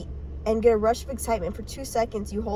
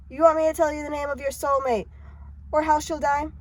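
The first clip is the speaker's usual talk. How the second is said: lightly acted taunting stranger; mildly pitched-up, goading question; taunting seer; 5 semitones higher than usual. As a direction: needle him with a raised voice. Eerie stranger taunts the narrator again.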